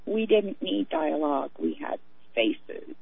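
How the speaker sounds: slow, hushed, fading into a whisper; dramatic movie quote. Retold or imitated. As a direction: savor it like a faded film diva. Quoting Sunset Boulevard line.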